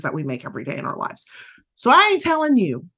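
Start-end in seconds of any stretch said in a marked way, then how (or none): 1.8-2.9 a touch of Southern accent. Real, not acted. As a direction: let the Southern accent slip in. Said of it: "my Southern accent kicked in there some".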